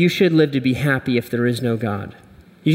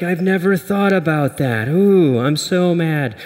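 Hulk voice; 2 semitones higher than usual. Acted. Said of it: "He's like".

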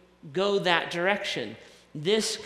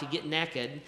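Southern naked; 4 dB quieter than usual. Shown as a demonstration. Pastor joking to the church, in a Southern accent. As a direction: say "naked" like "nekkid", Southern style. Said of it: "or if you're from the South".

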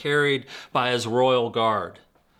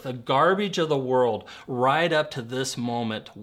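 impassioned scripture reading. Acted. Reads scripture passionately.

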